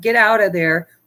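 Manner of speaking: ordinary talk, nothing marked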